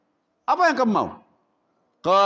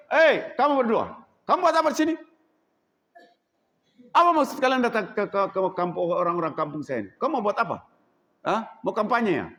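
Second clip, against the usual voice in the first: angry leader; faster than usual. Acted. Tribal leader confronting two strangers, angry challenge. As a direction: demand answers from intruders. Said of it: "Ini laki-laki pemimpin kaumnya".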